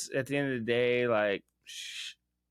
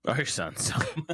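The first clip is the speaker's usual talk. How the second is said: laughing; 2 semitones higher than usual. Real, not acted. Laughing at his own slip.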